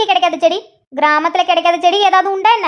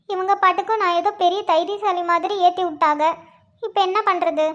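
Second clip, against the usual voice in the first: nervous stage fright; 7 dB quieter than usual. Acted. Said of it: "பயமா இருக்கே".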